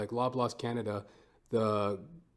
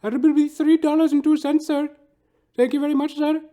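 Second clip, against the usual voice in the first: put-on much higher, louder, fast Indian-accented cashier; imitated Indian accent; 11 dB louder than usual. Cashier calling the next customer in a hammy Indian accent. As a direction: rattle it off high and quick in a put-on Indian accent. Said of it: "Hindu dude working the till".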